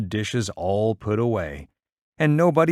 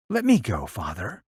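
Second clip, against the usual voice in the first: put-on pleading little girl. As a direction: beg like a seven-year-old daughter. Caddy begging Father.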